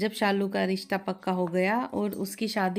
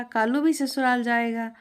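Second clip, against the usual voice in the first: higher chirpy parrot repeat; 3 semitones higher than usual. Acted. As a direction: echo it like a happy parrot. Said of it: "और फिर बोलने भी लगा". (चहकता तोता)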